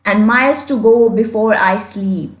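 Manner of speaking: very slow, deliberate reading of verse; slow poem recitation. Shown as a demonstration. Teacher reciting Frost's lines slowly to the class. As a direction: recite each line slowly for students to follow. Rereads line to show sound.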